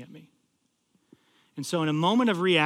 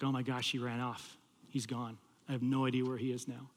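low, soft, sinking realization; retold dismay; 5 semitones lower, 8 dB quieter than usual. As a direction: think it aloud quietly, losing hope. Realizes the student has vanished.

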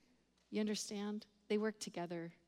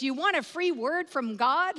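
higher, louder imitated eager pitch; eager offer; 5 semitones higher, 7 dB louder than usual. Prayer friend accosting drug dealer, imitated eager offer. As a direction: play the overkeen friend calling out an offer.

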